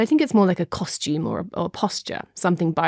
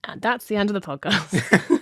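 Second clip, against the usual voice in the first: laughing; 3 semitones higher than usual. Real, not acted. Joking podcast cut-off.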